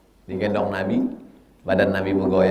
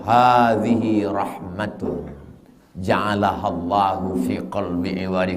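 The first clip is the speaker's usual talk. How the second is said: calm reply. Retold or imitated. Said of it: "Apa kata bapak tuh?".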